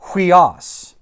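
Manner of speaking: "Huios" with an initial h, hwee-AHS; rough breather. Shown as a demonstration. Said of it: "Notice this has a rough breather".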